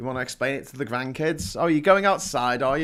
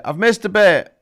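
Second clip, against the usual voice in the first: hushed self-correction; whispered aside; 7 semitones higher, 9 dB louder than usual. Real, not acted. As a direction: whisper I've missed a bit, no voice. Repeats it to herself.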